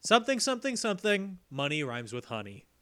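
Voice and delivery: deliberate, spaced-out verse reading; mock poem recital. Host reads a poem to their one patron, mock-solemn. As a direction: recite a silly thank-you poem, dropping at the end. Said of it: "I wrote a poem for you".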